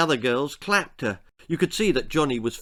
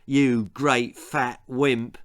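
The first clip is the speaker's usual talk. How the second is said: slow, snarled insult; a bully snarling at a boy curled on the ground; much slower than usual. Acted. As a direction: snarl it down at him. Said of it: "he snarled at Timothy".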